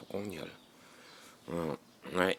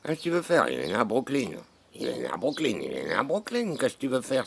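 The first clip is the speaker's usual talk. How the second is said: insistent high voice; 8 semitones higher, 7 dB louder than usual. Real, not acted. Insisting cousin is American.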